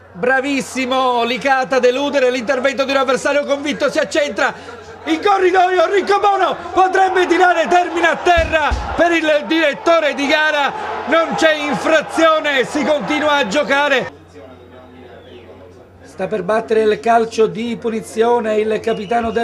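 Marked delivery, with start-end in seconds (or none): 3.9-14.1 excited commentary. Real, not acted. Near chance, live commentary.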